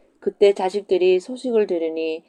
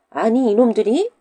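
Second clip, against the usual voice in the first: loud, higher outburst; angry widow; 5 semitones higher, 6 dB louder than usual. Acted. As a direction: snap at the pests. Widow flares at the kids. (과부가 아이들에게 버럭 화내듯)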